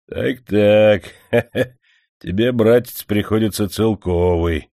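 lightly voiced manager, smirking; mocking tally with a chuckle; a hint of the manager grinning into his beard; smug chuckle. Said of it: "усмехнулся в бороду".

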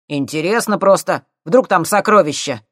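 high loud cheeky lad; cocky punk. A narrator's reading. Thief needling the scientists, loud and cocky.

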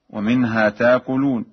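"تاكلون" as "taakuloon", no hamza; Warsh recitation. Shown as a demonstration. Teacher illustrating Warsh's hamza change, "تاكلون" recited "taakuloon". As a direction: lengthen the first vowel of "تاكلون" to "taa". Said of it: "يبدل الهمز الساكنة".

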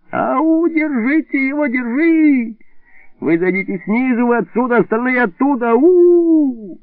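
high excited yelling to catch thieves; shrill cry for help. Acted. Neighbour yelling at thieves from his balcony, high frantic shouting. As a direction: raise the alarm at the top of your voice. Илико's hysterical scream from balcony.

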